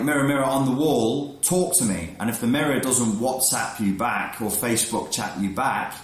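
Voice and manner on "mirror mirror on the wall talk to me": mock fairy-tale plea. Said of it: "So you're like".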